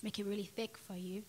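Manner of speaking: thick hard Cockney; Cockney accent. Shown as a demonstration. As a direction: lay the Cockney on really thick. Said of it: "a real hard Cockney one".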